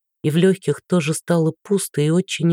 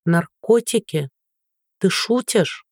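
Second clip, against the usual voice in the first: bewildered disbelief; 2 semitones higher, slower than usual. Acted. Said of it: "проговорила растерянно и тихо".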